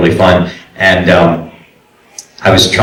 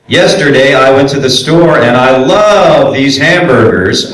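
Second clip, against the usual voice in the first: higher, swooping unnatural script delivery; sing-song script read; 6 semitones higher than usual. Shown as a demonstration. Voice coach mocking a bad script read, sing-song. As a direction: read it in an exaggerated musical lilt. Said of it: "you started to just".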